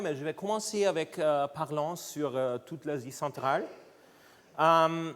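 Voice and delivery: Austrian German accent in French; non-native French with a German-speaking accent; foreign accent in French. Real, not acted. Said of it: "mon français est pas par-, parfait".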